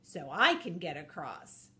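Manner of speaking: high, slow, delighted praise; gushing over his buddy; delighted wolf voice. Acted. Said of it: "Mister Wolf says".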